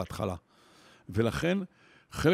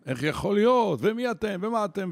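high, louder accusing outburst; imitated angry yelling; 7 semitones higher, 3 dB louder than usual. Kindergarten teacher blaming the foreman, mock angry yelling. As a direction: blast the foreman with blame. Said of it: "וצועק על המנהל עבודה".

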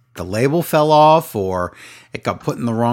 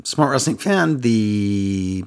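voice cracking; much slower than usual. Real, not acted. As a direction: voice cracks mid-phrase. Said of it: "my voice just cracked".

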